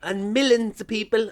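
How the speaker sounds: millions stretched with an s, mimicking older people; old-timer millions. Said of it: "I go".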